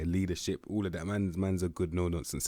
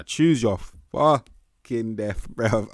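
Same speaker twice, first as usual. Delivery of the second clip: mock dramatic shout; 5 semitones higher, 11 dB louder, much slower than usual. Mock dramatic outburst at stats.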